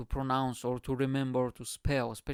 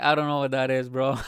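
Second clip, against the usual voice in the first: tag only; 9 dB louder than usual. Retold or imitated. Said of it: "And he was like".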